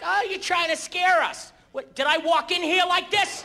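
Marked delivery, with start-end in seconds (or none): 0.0-1.5 mock annoyed passengers. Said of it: "They're like".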